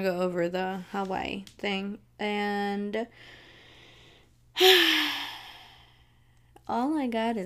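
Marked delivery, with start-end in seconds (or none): 4.5-5.5 dramatic sigh. Acted. Dramatic sigh before a singer.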